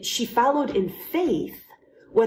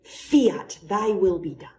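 hopeful. Shown as a demonstration. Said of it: "praying fiat with hope".

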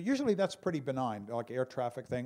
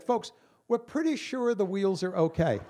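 pilot announcement; 5 semitones higher, 4 dB louder than usual. Retold or imitated. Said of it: "So the pilot comes on".

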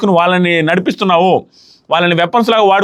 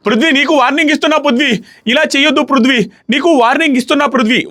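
higher-pitched mock warning, repeating the name; retold warning; 6 semitones higher than usual. Older housemate warning Prithvi during the task, mock raised pitch. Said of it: "అన్నాడు".

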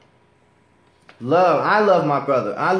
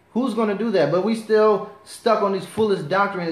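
raised high, heated preaching; righteous anger; 4 semitones higher than usual. Real, not acted. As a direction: let real anger push the pitch up. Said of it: "Excuse me, I'm getting angry".

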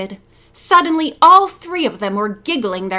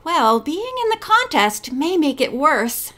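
higher, sugary false concern; phony sympathy; 4 semitones higher than usual. Acted. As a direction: fake sweetness, hammed a little. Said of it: "dripping with phony sympathy".

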